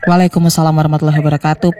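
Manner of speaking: ordinary talk, nothing marked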